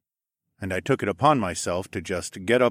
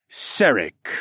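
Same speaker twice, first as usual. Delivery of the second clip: hissed; 4 dB louder than usual. Acted. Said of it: "the lizard man hissed".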